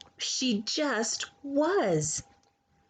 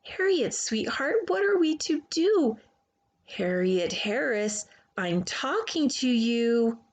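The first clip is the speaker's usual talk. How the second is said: stern mother. Acted. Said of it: "so instead she said".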